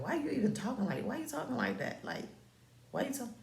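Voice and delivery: high-pitched mocking imitation of him; mock whiny complaint. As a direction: mimic his protest, high and quick. Mimics his complaint about her tone.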